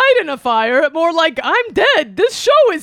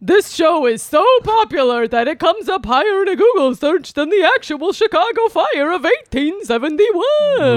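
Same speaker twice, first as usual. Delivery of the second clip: boisterous birthday clown. Acted. Bunny voice continues.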